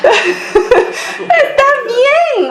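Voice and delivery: very slow, high laughing "está bien". Real, not acted. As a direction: let it dissolve into laughter. Laughs, stretched out. ("está bien" muy lento entre risas)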